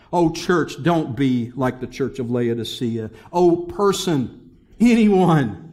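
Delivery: loud, stretched appeal to the church; pleading cry. Acted. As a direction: call out to every person.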